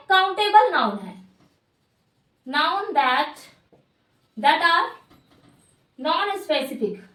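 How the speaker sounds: slow, word-by-word dictation with long pauses; dictating. Shown as a demonstration. Teacher giving students a definition to write down, dictating. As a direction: spell out the definition in small chunks, pausing between.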